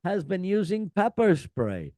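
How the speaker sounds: hammed-up scolding of the crowd from the stage; imitating an annoyed singer telling off fans; a singer's rant. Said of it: "the singer can be heard saying".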